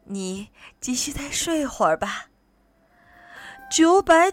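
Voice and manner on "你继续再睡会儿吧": gentle lulling voice; calm, hushing motherly reassurance; soothing mother. Acted. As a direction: coax a baby back to sleep. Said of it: "就像在哄宝宝们睡觉".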